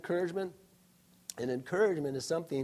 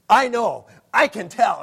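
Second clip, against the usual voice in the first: mock upset wife; 5 semitones higher, 12 dB louder than usual. Wife accusing husband, acted story.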